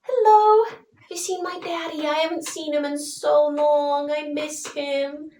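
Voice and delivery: put-on small, plaintive child missing his daddy; little boy. Little boy asking strangers after his missing father, high childlike voice. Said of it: "this little boy wanders in".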